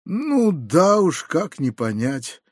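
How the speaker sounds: ordinary delivery, nothing marked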